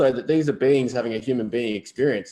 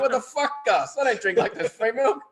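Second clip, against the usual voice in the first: high mock outrage, laughing; mock outraged; 11 semitones higher than usual. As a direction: squeal it, pretending to be indignant. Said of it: "I'm like".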